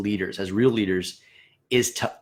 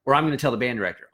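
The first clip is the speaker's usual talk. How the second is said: bossy scolding; 5 semitones higher than usual. Retold or imitated. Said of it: "if you were to walk into your section and say".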